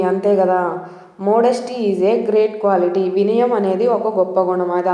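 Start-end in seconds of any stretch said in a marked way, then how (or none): 1.3-3.0 very slow, word by word; slow example sentence. Shown as a demonstration. Teacher reads the example sentence very slowly to learners. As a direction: read it slowly for the class. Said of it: "దీన్ని example చూద్దాం".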